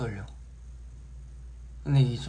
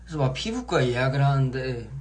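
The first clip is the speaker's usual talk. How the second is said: ordinary delivery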